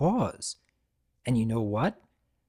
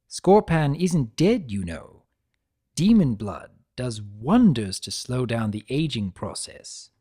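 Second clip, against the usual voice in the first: lightly raised, lively trickster lecturing a prisoner; Discord voice. Acted. Discord chiding Tirek for abandoning his brother, lightly voiced trickster.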